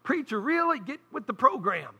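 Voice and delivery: high, disbelieving "Really?"; mock scolding the preacher in a high voice; an incredulous jab at the preacher. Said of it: "I'm thinking".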